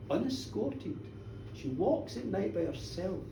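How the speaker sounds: low, slow, hushed accusation; ominous gossip. A narrator's reading. Village woman informing on Janet to minister, hushed and ominous. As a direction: let each damning detail sink in softly.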